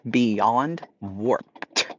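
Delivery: 'warped' slowed, with a crisp final T; careful 'warped', every consonant sounded; careful pronunciation. Shown as a demonstration. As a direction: spell out 'beyond warped' deliberately by ear. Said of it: "that's how my accent comes out".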